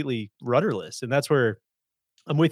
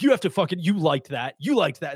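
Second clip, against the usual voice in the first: contrarian fan; 4 semitones higher, 4 dB louder than usual. Retold or imitated. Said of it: "exactly what you said".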